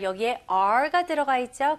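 ordinary delivery

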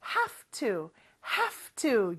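"have to" said "haf to", quiet and slow. Shown as a demonstration. Teacher demonstrates the f sound in "have to". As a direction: let the v become f: "haf to". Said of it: "F 발음으로 변해요".

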